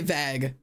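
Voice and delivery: vague said as vag, short a; wrong vague. Shown as a demonstration. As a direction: say vague to rhyme with bag. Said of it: "I also say vag".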